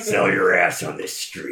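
high, loud, slow pimp drawl; sleazy pimp voice. Acted. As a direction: lean in like a greasy pimp. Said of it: "my sleazy, gross pimp voice".

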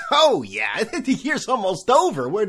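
laughing. Real, not acted. Laughs at date mistake.

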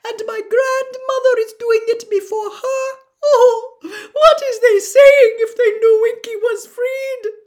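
very high, loud tearful elf lament; wailing Winky. Acted. Winky weeps over Mister Crouch and her shame, wailing.

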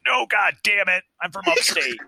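high, exasperated retold protest; hammed-up indignant denial; indignant outburst. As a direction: burst out in mock outrage. Retells indignant reply about accent.

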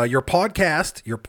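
slow, drawn-out posh British podcast; a stretched-out posh British read; posh British lilt, slow. Acted. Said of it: "Very posh".

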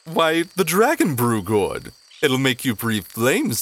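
a hint of the high goblin herald; lightly voiced goblin. GM voices Slorb answering.

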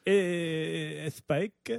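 soft, hesitant mock Italian with an extra syllable; nervous Italian accent. Co-host repeating his channel guess, halting mock Italian accent. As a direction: draw out a questioning Italian "Spike". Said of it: "added an extra syllable in there".

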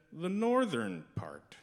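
put-on slow, drawn-out Minnesotan accent like Fargo. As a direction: stretch it out in a thick Minnesotan accent. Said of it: "thick Minnesotan accent straight out of Fargo".

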